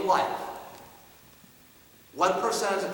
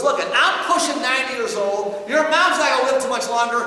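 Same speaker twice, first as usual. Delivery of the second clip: louder, higher, pressing the point hard; an old father pushing his son to act; dad's urgent plea; 6 semitones higher, 8 dB louder than usual. Retold or imitated. Father urging his son off the couch, raised urgent voice. Dad pleading with depressed son.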